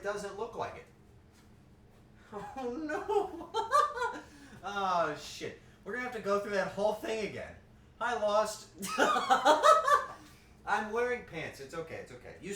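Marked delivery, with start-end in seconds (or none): 2.6-4.6 high, loud laughing fit; embarrassed laugh. Real, not acted. Streamer laughs at her pantless look. 8.7-10.3 very high, loud shriek of laughter. Real, not acted. Streamer shrieks with laughter greeting a viewer.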